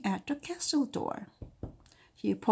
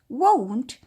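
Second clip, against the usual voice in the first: stubborn refusal; 4 semitones higher, 7 dB louder than usual. Acted.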